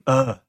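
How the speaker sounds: brief mock "ugh"; grudging sigh, acted out; exasperated sigh. God giving in to Moses over his brother, exasperated sigh. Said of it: "that's how he sighs".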